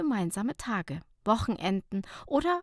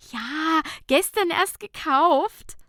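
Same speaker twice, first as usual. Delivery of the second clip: proud; 8 semitones higher, 6 dB louder, slower than usual. Acted. Proud of new bikini.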